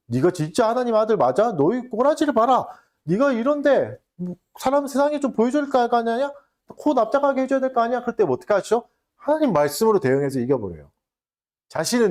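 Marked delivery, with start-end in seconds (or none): 0.1-8.0 Satan sneering, voice pushed higher; mocking Satan. Preacher voicing Satan jeering at starving Jesus, mocking and higher. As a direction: taunt him like a jeering tempter, pitched up. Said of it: "사탄이 조롱하고 있고".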